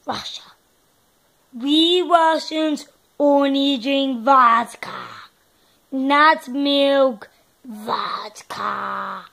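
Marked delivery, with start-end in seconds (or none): 1.5-9.3 put-on Russian accent. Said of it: "let's just do Russia".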